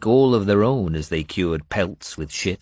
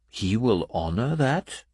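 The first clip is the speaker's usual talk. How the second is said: skeptical; 4 semitones higher than usual. Acted. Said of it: "She sounded skeptical".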